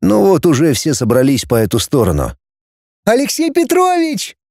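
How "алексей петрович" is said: much higher, calling shout; girl calling out to the returning teacher, shouting. Acted. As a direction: call across to the teacher. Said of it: "закричала Рита Ефимова".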